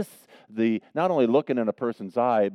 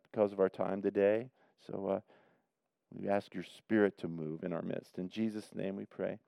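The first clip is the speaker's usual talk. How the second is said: prayer. Real, not acted. Pastor prays for the congregation.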